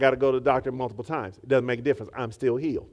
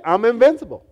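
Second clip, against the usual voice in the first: megalomaniac rant; 5 semitones higher, 6 dB louder than usual. Acted. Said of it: "You need to say it".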